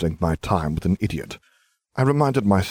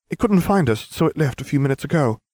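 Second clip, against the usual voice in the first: put-on high girl voice; 8 semitones higher than usual. Hermione lying.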